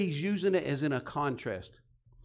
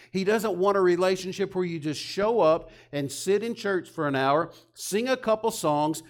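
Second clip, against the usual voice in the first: louder, higher, pressing each item hard; fervent preaching; 4 semitones higher, 5 dB louder than usual. Real, not acted. Preacher rousing the congregation, loud and fervent. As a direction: drive the point home to the congregation. Preacher builds to a forceful point.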